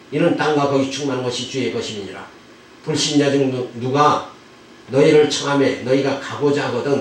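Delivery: steady, continuous recitation of Bible verses; scripture reading. Real, not acted. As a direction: read the passage aloud in an even, rolling cadence. Reads scripture passage aloud. (성경 봉독하듯 낭독조로)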